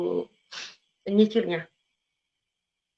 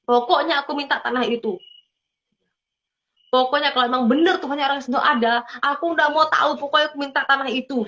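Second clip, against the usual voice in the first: raised, hurried mock-demanding prayer; insistent plea; 4 semitones higher, faster than usual. Speaker retells begging God for the land, insistent plea. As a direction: insist on it, pitched up and pressing.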